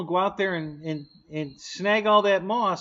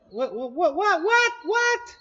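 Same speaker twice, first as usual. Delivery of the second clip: each what climbs higher and higher in shock; rising disbelief; 13 semitones higher, slower than usual. Real, not acted. Stacked whats pitching up in alarm. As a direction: streamer spotting the missing top, more and more stunned. Sees the plane is topless.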